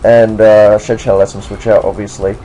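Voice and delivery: put-on generic American doing a British accent throughout. Commentating a Pokemon battle for viewers in a put-on British accent. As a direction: keep a mock British accent the whole way through. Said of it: "I would do this video in a British accent".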